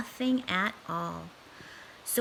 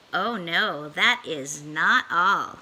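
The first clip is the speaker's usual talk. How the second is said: sly cat; 5 semitones lower, 3 dB louder, slower than usual. Acted. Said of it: "cat's teasing aside".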